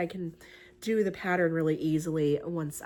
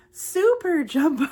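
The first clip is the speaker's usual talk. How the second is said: super jumbo, louder and higher, stretched out; hyped emphasis; 8 semitones higher, 9 dB louder, slower than usual. Real, not acted. Crafter hypes the giant yarn, loud stretched emphasis. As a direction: oversell how huge the yarn is.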